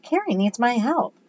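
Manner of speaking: high-pitched impatient retort; snappish. A narrator's reading. Eddie choosing Carrie over his friend, snappish. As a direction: brush him off sharply, pitch up. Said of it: "Eddie snapped".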